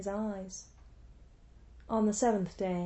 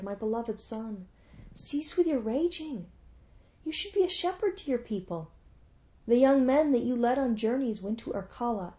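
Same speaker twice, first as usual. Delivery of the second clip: pleading mother; 2 semitones higher than usual. Acted. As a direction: beg your grieving son tenderly. Mother pleads with grieving son.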